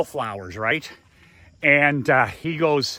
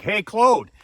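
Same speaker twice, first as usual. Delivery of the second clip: retold hail, higher and louder; calling out; 6 semitones higher, 5 dB louder than usual. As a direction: imitate someone greeting a friend on speakerphone. Retold greeting over speakerphone.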